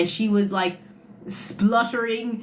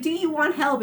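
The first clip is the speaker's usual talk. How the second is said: raised offer of help; 9 semitones higher than usual. Retold or imitated. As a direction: call it out over the noise. Offering help to crying toddler.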